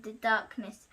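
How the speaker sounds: breathy hush on darkness; whispered. A narrator's reading. Narrator whispering darkness to the listener. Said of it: "voices whispering in".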